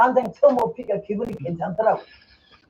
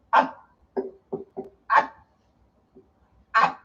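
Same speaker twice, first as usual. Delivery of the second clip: sharp gasps. Retold or imitated. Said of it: "찔 때마다".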